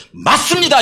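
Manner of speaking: high, emphatic exclamation; acted cry of confident faith, pitched well up; bold affirmation. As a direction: declare it boldly and brazenly. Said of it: "이렇게 하면 나가는 것이".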